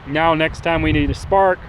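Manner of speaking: talking with grit in the mouth; something in mouth. Real, not acted. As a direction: say it with something stuck in your mouth. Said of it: "sorry, I got some in my mouth".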